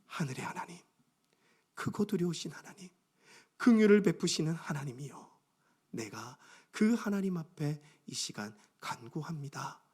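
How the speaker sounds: soft, hushed, measured prayer; prayer of faith. Acted. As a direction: address God quietly and reverently, phrase by phrase. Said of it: "함께 믿음으로 선포했으면 좋겠어요". (낮은 소리로 조용히 드리는 간구)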